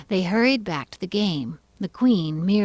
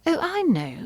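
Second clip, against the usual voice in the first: exclaiming; 10 semitones higher than usual. Acted. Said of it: "exclaimed Alice".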